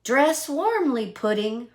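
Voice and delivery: weak voice. Acted. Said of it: "in a weak voice".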